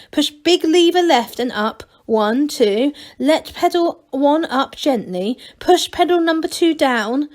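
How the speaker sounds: eager gnome reciting instructions; Angelo reading notes. Acted. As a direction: read the steps off like a checklist. Angelo reads his driving notes.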